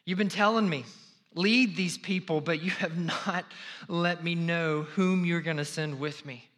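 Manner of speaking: preacher voicing Moses pleading. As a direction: beg God with rising urgency. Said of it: "said pleadingly".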